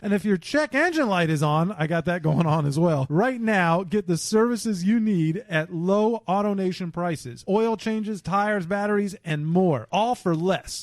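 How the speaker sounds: upbeat sponsor ad read; podcast host reading a sponsor ad. Acted. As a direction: sell it like a radio spot. Service ad read.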